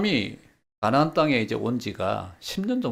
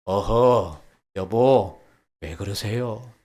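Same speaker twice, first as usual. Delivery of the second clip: gentle wifely check; 4 semitones lower, much slower than usual. Shown as a demonstration. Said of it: "아내가 어떻게 하자고요?".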